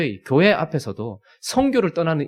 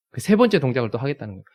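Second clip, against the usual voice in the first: ordinary talk, nothing marked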